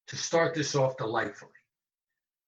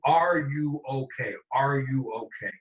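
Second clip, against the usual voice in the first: "are you okay?" slowed, pressing on "are"; emphatic concern; slower than usual. Shown as a demonstration. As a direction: insist on "are", you mean it. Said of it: "I changed my emphasis".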